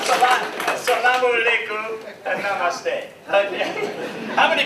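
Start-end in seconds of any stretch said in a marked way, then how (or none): 0.0-3.1 louder, higher "assalamu alaikum and namaste"; multilingual greetings. Shown as a demonstration. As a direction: greet vendors in their own languages. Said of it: "And if you have any vendor here".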